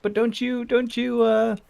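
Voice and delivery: high-pitched, hesitant mock questioner; nitpicking questioner. Imitating people who bring that up, high mock questioning. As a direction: imitate someone raising an objection, high-pitched.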